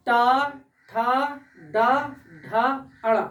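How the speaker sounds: टा, ठा drawn out very slowly, each syllable held to feel the tongue; slow demo. Shown as a demonstration. Teacher slowly sounding टा ठा for students to copy. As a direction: sound out टा, ठा, डा, ढा, अड़ा slowly for the class. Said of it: "अब इसको बोल के देखिए".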